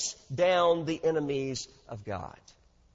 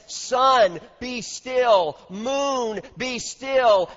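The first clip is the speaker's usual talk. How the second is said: Joshua commanding; 4 semitones higher, 4 dB louder, much slower than usual. Acted. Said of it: "turns his face to the heavens and says".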